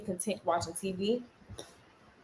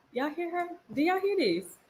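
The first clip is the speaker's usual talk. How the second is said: loud, higher scolding call; firm parental no; 5 semitones higher, 7 dB louder, much slower than usual. Real, not acted. Calls out to her child.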